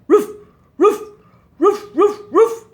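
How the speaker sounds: high, loud playful puppy barks; puppy barking. Acted. Puppy Falcon barking hello to the children, high and loud. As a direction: yap like an excited little puppy. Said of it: "This is Falcon".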